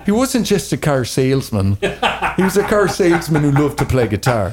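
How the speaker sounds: light Irish accent put on for a joke; a playful stab at an Irish lilt, half laughing. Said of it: "let me try my Irish accent".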